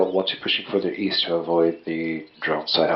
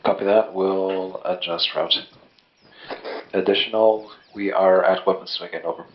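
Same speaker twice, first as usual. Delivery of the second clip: distant voice through a radio; tinny field radio transmission; crackly military radio; 2 semitones lower, 4 dB quieter than usual. Real, not acted. Squad member over radio.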